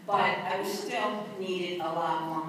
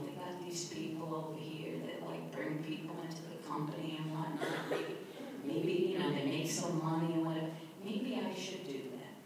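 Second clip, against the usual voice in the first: tentative suggestion; 2 semitones lower, 8 dB quieter than usual. Retold or imitated.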